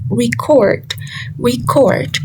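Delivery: record with cord stressed; verb stress. Shown as a demonstration. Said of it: "the stress falls on the second syllable".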